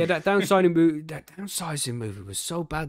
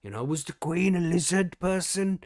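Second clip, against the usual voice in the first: slow, louder, put-on voice of a conspiracy nut; rising to a louder, higher mock rant; mock conspiracy theorist; 4 semitones higher, 4 dB louder than usual. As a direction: ham up a wide-eyed conspiracy believer. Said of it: "we don't wanna spam them with, like".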